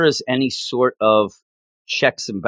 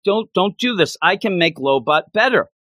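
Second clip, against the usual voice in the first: higher, pleading robot voice, begging for its life; pleading droid; 6 semitones higher than usual. Retold or imitated. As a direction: beg to be spared, high and quick. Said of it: "He's like".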